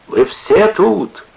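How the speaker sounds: put-on slow, high, loud drunken question; drunken bellow. A narrator's reading. Drunken sailor greeting the gang, bellowing. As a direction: draw it out loudly, astonished and drunk.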